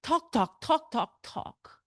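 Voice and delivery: slow, weary groan of talk talk talk; bored students. Retold or imitated. Teacher imitating bored students reading Poe, weary. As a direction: sigh it out as an overwhelmed reader. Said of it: "they read Poe and go".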